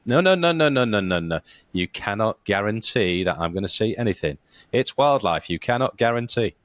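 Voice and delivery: imitated emphatic protest, high rapid-fire refusals at the start; Dino Jenkins. Diver imitating his mate rejecting a dolphin guarantee, emphatic protest. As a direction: act out a mate flatly refusing a promise.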